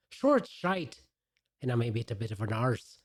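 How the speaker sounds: lightly put-on Irish accent; a hint of an Irish lilt, cheeky. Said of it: "I'd do it in my Irish accent".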